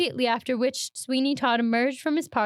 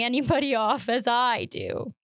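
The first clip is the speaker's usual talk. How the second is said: sinister laugh. Acted. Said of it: "if you come that laugh again".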